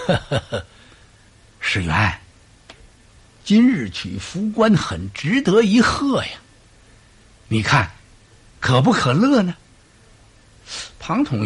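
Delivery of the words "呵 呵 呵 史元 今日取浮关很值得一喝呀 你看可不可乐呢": tipsy cheer. Acted. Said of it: "刘备又有点醉意了".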